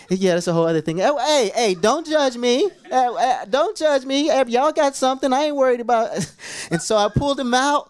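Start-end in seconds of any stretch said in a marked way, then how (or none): 1.0-6.1 playful protest. Real, not acted. Joking defence to congregation.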